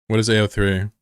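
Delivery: talking while eating chips; words round a mouthful of chips; mouth full. Real, not acted. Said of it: "Sorry, I'm eating chips".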